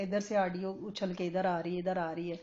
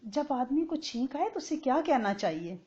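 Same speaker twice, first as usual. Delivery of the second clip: gently asking, a touch higher; lovingly; 5 semitones higher than usual. Retold or imitated. The scholar gently asks the companion who sneezed, lovingly. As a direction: coax the question out kindly. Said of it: "بڑے پیار سے کہا".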